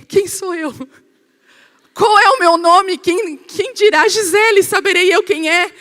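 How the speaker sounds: high, loud, slow and dazed; half-asleep, not knowing who you are; groggy confused wake-up. Retold or imitated. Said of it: "Eu falei".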